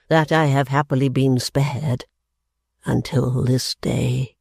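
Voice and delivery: put-on slow, wounded old man; the father lamenting to his daughters; grieving father. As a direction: plead his dignity with hurt. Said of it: "fit of grief".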